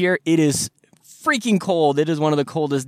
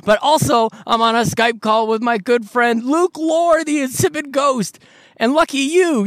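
hyped podcast host intro; 12 semitones higher than usual. Acted. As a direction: shout the intro like a radio host. Shouted podcast intro from car.

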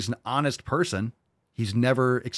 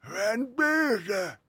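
very high, slow slurred parody; mock Biden mumble; 11 semitones higher, much slower than usual. Mocking Biden's speech, high slurred mumble. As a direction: slur it like a confused old man.

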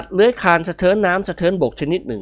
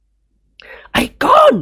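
high, loud, drawn-out yell; shouting at top voice; 6 dB louder, much slower than usual. Acted. Old master yelling at Nikorn, long shout. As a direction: bellow the boy's name across the room. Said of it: "ตะโกนสุดเสียง".

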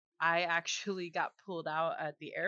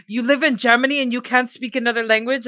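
incredulous guy in club; 7 semitones higher, 14 dB louder than usual. Retold or imitated. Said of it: "And he goes".

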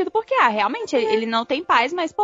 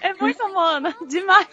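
excited; 6 semitones higher than usual. Real, not acted. Echoes friend, laughing, higher.

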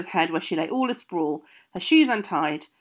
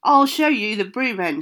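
shriek; 3 semitones higher, 6 dB louder than usual. Acted. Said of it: "shrieked Hepzibah".

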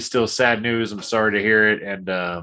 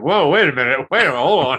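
surprised; 4 semitones higher, 5 dB louder, faster than usual. Retold or imitated. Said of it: "It's like".

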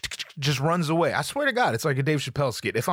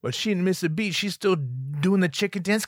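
usual speaking voice

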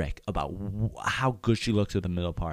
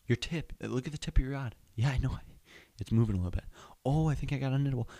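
excited fishing buddy; 8 semitones higher, faster than usual. Acted. Friend coaching an angler reeling in a fish, building excitement. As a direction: call out to the angler, rising into panic.

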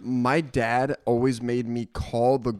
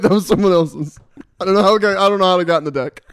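theatrical magician; 6 semitones higher, 10 dB louder than usual. Acted. Mock magician to dad.

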